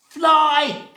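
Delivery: high, loud burst; excited exclamation. A narrator's reading. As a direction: call it out high for the children. Storyteller exclaims the answer.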